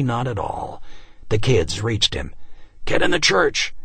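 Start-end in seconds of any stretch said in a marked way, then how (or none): 2.8-3.7 shout. A narrator's reading. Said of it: "he shouted to them".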